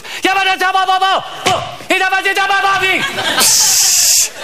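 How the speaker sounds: high, fast babble of panicked men; mock foreign jabbering; excited foreign gibberish. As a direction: jabber in alarm behind a door. Gibberish heard through the door.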